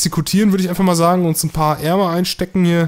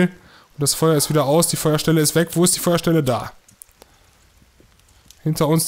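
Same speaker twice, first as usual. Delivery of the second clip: usual speaking voice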